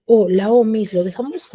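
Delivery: a hint of a questioning pupil; student asking the teacher.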